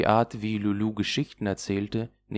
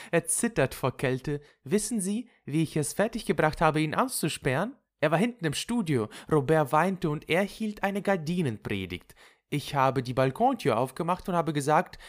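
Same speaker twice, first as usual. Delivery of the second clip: higher, lively recounting of a prank; amused Lulu; 9 semitones higher than usual. Acted. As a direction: share the mischief eagerly, voice lifted. (vergnügt erzählende Lulu)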